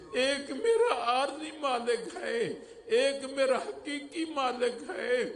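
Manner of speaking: moved shepherd's plea. Acted. Shepherd's moved answer about two masters.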